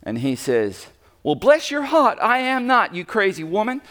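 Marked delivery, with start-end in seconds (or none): 1.2-3.8 high-pitched, hammed-up Galilean accent; mock Galilean accent, pitched way up; weird Galilean accent. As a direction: play Peter's denial in a loud, comically weird accent. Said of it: "a really weird accent".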